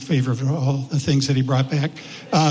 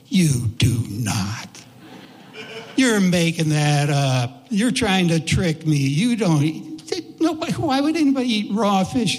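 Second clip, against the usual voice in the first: put-on kid disbelief. Kid refusing to believe friend.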